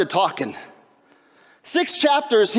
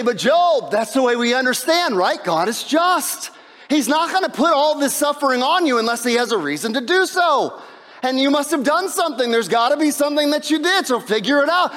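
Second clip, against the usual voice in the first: mildly preachy friends; 5 semitones higher than usual. Retold or imitated. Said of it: "And they say".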